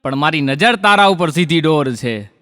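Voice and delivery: lifted line openings, falling rhyme endings; poetry recitation. Acted. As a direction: declaim rhymed couplets to a crowd. Recites rhymed verse to audience.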